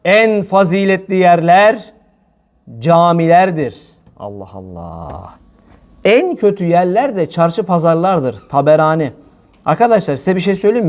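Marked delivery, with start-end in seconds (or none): 0.1-8.5 slow, measured quoting of the hadith; slow hadith quote. Shown as a demonstration. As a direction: lay out each word slowly like a sacred quote. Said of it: "Efendimiz Aleyhisselatü Vesselam devam etti".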